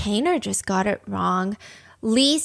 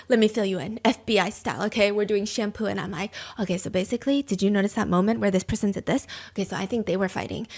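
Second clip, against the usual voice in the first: hushed FBI style; 2 semitones lower, 6 dB quieter, faster than usual. Retold or imitated. Wife briefing husband on the gossip, hushed and secretive. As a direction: lean in and whisper the intel. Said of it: "FBI style".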